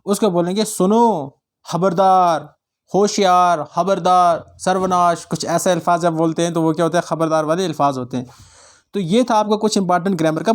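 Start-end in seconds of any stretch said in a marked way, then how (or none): 0.7-5.2 separate, emphatic mock warnings; demonstrated warning. Shown as a demonstration. Teacher giving students examples of warning words, mock warning. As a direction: call out each word like a caution. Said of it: "ख़बरदार करने या डराने के लिए बोले जाएँ".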